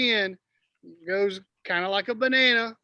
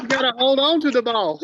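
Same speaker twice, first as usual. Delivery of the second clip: laughing, louder, through the words; 4 semitones higher, 7 dB louder than usual. Real, not acted. Coach laughing at the fumbled handoff.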